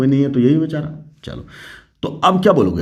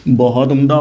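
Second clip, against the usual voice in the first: loud praise; 2 semitones higher, 6 dB louder than usual. Real, not acted. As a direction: praise said louder, bursting out. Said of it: "शाबाश". (ज़ोर से शाबाशी)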